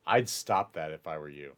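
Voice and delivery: low, soft warning; warning character. Acted. Game master's character warns Reed off, low quiet warning. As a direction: drop the voice low for a quiet threat. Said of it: "Reed, and goes".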